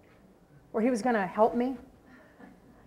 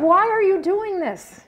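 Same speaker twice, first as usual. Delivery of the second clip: higher, louder, slow disbelief; incredulous question; 10 semitones higher, 8 dB louder, slower than usual. Retold or imitated. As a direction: ask in astonished disbelief. Baffled at receptionist's kindness.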